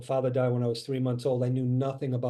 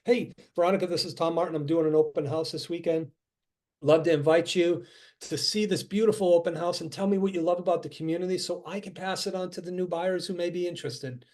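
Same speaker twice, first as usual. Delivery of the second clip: friendly cold call; 3 semitones higher, faster than usual. Shown as a demonstration. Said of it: "I can call and go".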